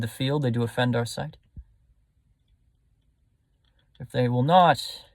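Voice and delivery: controlled, low royal anger; a lightly voiced furious king giving orders; angry king. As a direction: command it coldly through clenched restraint. Recites Henry V's anger.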